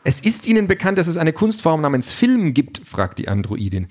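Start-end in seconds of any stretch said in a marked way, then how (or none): 0.0-2.8 much higher, mocking android voice; condescending android. A narrator's reading. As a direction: talk down to him, amused. Calliope mocks Peter.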